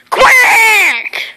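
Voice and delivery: loud duck quack. Acted. Duck character quacks loudly.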